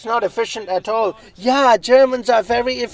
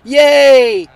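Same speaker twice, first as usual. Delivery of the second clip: loud happy German-voiced cheer; German guy cheering; 5 semitones higher, 9 dB louder than usual. German character delighted to be allowed to speak, loud cheer. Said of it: "Okay, you can speak".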